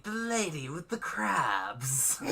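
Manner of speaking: slow, laughing through the words; giggling, barely holding it; hiccup giggles. Pretend. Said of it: "Stop making me laugh".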